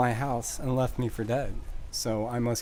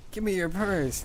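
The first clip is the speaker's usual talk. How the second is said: mock mugger; 6 semitones higher than usual. Acting a mugger.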